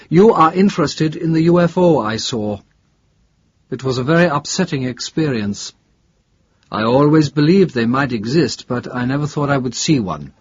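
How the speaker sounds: a hint of a shaken academic witness; lightly voiced professor. Professor telling investigator about the UFO he saw, lightly voiced. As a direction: lightly play a professor recalling a shock.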